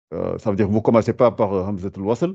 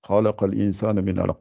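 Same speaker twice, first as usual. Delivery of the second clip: Quran recitation. Shown as a demonstration. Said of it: "Vous êtes obligé de faire un I".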